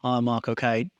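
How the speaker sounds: a weak, barely-there Cockney "Hi, Michael Caine."; awful Cockney accent. Shown as a demonstration. Host tries a Cockney accent and admits it's awful. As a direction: attempt a Cockney greeting, badly. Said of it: "my accent is awful".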